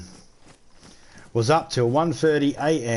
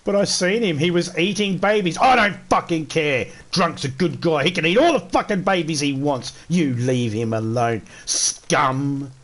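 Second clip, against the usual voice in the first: raised, riled-up joking defence; mock outrage defending a friend from chat critics; hammed-up mock rant; 4 semitones higher than usual. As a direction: go over the top defending your mate, tongue in cheek. Mock-defending friend against haters.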